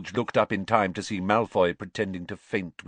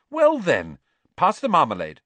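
put-on teen boy voice; 9 semitones higher, 8 dB louder than usual. A narrator's reading. Ron voiced.

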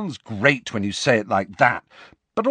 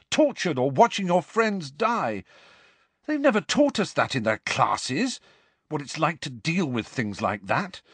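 angry outburst; 10 semitones higher than usual. Acted. Harry's angry outburst at friends.

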